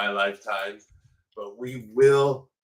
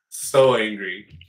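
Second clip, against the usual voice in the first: mock seething; 4 semitones lower, 4 dB louder, slower than usual. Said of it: "I'm so angry".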